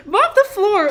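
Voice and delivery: high, slow, loud bossy order; shrill mock command. A bossy partner barking chores at her man, high and loud. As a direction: bellow the chore like a domineering woman.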